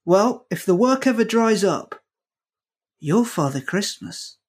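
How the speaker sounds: imitating Eamon. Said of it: "he went to me".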